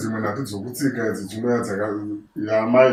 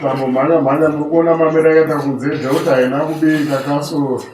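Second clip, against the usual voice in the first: raised, louder voice calling to hurry; loud urging; 3 semitones higher, 6 dB louder than usual. Acted. Loud call to a child to run and hurry. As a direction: call out loudly so they move.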